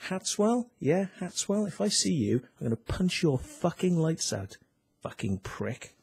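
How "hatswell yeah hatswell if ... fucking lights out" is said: raised, higher threat to the officer; angry threat. Real, not acted. Ranting at officer Hatswell, a higher angry threat. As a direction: call him out and threaten him.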